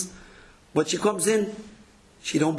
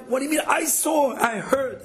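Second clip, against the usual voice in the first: mock-indignant burst, pitched higher; indignant objection; 4 semitones higher than usual. Imitating a man who insists he saw it, higher and heated. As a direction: play the worked-up accuser protesting.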